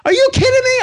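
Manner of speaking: very high, loud disbelief; incredulous shriek. Retold or imitated. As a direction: squeal it out, unable to believe him. Disbelief at supervisor's excuse.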